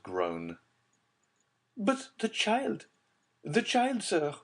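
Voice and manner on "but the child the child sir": high, slow pleading repetition; agitated mother. A narrator's reading. Agitated mother pleading with Villefort, high anxious repetition. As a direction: press him anxiously. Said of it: "repeated the agitated mother".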